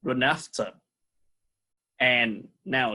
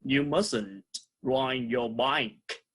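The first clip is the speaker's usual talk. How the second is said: slow model reading; 3 dB quieter, slower than usual. Shown as a demonstration. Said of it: "And the last sentence".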